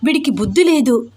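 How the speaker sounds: put-on mildly agitated young wife, pitch lifting; a hint of exasperated heroine; lightly voiced flustered heroine. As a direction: grumble to yourself, a touch flustered.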